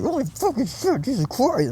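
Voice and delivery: loud, slow, squealed cursing; retold overwhelmed shock. Speaker reliving the angel's energy, overwhelmed. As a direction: draw out a high, astonished shriek. Retold stunned reaction to vision.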